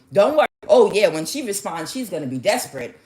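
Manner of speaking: lightly hammed-up reassuring; mock reassurance. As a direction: brush off doubts as a cocky coach. Coaches reassuring in acted exchange.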